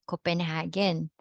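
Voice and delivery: Copenhagen with a hard g in the third syllable; English pronunciation. Shown as a demonstration. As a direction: say Copenhagen the English way, HAY-gen. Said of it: "we can pronounce that in English as".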